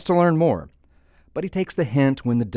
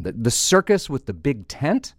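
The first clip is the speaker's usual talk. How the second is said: higher, doubtful question; puzzled, rising query; incredulous questioning; 4 semitones higher than usual. Acted. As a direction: check that you heard correctly. Duck incredulously questioning the bartender.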